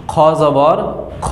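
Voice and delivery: খ rounded, with no aa; careful teacher's demo of খ; correct pronunciation. Shown as a demonstration. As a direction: model খ as the bare letter, never খা. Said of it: "উচ্চারণ সঠিক হবে".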